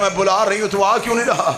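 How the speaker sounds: urgent tearful plea. Acted. Zainab pleading again with the boy, urgent tearful plea. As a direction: press him harder, voice climbing. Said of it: "बीबी ने कहा".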